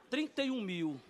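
acted hushed realisation; subdued repeat. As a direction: say the sum quietly to yourself. Stunned repeat after the shout.

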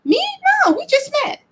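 high, playful fake-innocent voice; mock innocent. Teasing strangers with her sister, high and mock innocent. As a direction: tease them with a high innocent denial. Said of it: "I'm like".

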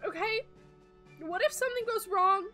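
high, loud anxious rush; nervous spider fretting about meeting a friend; panicked worrying. Acted. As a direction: spiral into nervous what-ifs. Sky panics aloud.

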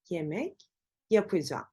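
"yapacağım" as "yapıcam"; spoken form. Shown as a demonstration. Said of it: "Telaffuz ederken".

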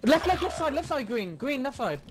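high, urgent repeated warning; urgent callout. Real, not acted. Player warning teammates of enemy on left, urgent. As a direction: call out the enemy's position urgently.

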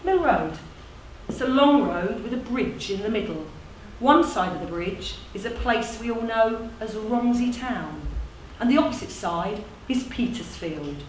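measured recital with deliberate pauses; lightly performed storytelling, phrases falling away; monologue narration. Acted. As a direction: narrate it like a spoken tribute.

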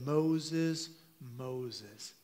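gentle, fading call of a name; intimate call. Retold or imitated. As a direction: call him softly, drawing him close. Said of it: "there's an intimacy that happens".

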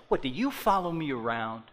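building from a complaint to a loud, high angry shout; mock accusation rising to a yell; indignant outburst. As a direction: play the offended listener, getting hotter each question. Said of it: "They say things like".

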